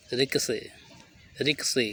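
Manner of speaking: "रिक से" said rik-uh-say, no t; taught pronunciation. Shown as a demonstration. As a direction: end "रिक से" on an open vowel. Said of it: "रिकोचेट लिखते हैं".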